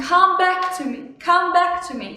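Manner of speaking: half-hearted imitation of boyfriend-loss crying; crying drunk girl. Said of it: "crying under the bus".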